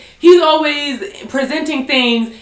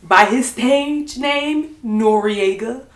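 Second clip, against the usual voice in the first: careful formal announcement; 3 semitones lower than usual. Real, not acted. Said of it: "I'ma get this right".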